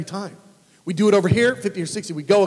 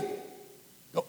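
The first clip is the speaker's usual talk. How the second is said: ordinary talk, nothing marked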